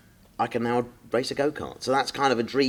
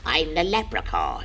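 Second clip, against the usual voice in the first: a lightly Irish leprechaun line, high and slow; Irish leprechaun voice, slow and raised; 7 semitones higher than usual. Shown as a demonstration. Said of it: "so it's like this".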